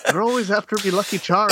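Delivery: imitating an Irish film villain's lilt; Irish movie character. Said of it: "the Irish guy from Austin Powers".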